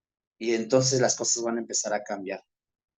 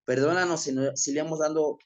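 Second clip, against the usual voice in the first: humble, earnest spoken prayer; closing prayer. Acted. (oración humilde y sincera)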